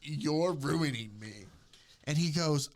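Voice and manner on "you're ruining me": lightly overdone swoon, slow; slow hammed-up wail. Retelling the film to her friend, hammed-up slow wail. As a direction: drag out ruining me like a wounded heroine.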